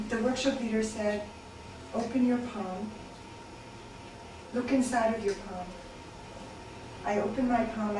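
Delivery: measured, deliberate poem delivery with pauses between phrases; spoken-word recital in even, spaced lines; poetry reading. Acted. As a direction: read it as a poem to a listening room. Reads a narrative poem.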